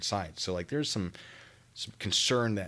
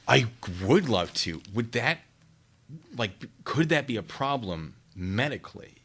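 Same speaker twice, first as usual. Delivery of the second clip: ordinary talk, nothing marked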